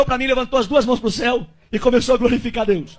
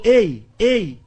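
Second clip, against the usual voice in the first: slow, lower, intimate voice of the Spirit; Holy Spirit voice; 4 semitones lower, slower than usual. Retold or imitated. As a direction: voice of the Spirit whispering in his ear. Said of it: "o Espírito Santo veio na minha orelha e falou".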